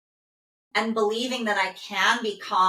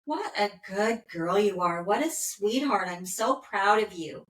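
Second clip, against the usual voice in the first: loving, calm praise. Retold or imitated. Owner petting her dog, calm and loving. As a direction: soothe the dog calmly as you pet it. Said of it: "in a very loving, calm way".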